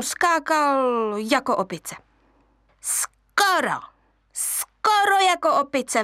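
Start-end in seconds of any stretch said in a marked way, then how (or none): 2.8-6.0 high shrieking monkey voice; screeching monkeys. Acted. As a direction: screech it mockingly. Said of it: "vřeštěly opice".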